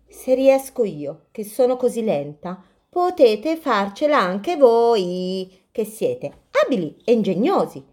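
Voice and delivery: a slow little tortoise, encouraging. Acted.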